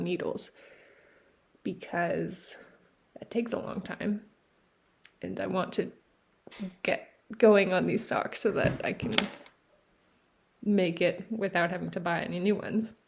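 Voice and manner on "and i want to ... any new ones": panting between words; breathless after effort; out of breath. Real, not acted. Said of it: "like, panting now".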